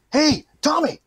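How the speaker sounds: high-pitched retold greeting; hailing a friend. Friend calls out greeting him.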